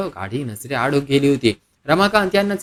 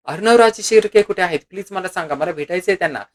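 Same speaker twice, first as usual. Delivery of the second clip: desperate but understated entreaty; pleading; 3 semitones higher than usual. Acted. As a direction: beg to be told. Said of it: "रिसेप्शनिस्टला विनवणी केली".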